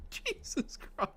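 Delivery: wheezing through laughter; gasping the words out mid-laugh; breathless laughing. Real, not acted. Streamer wheezing at his own impressions.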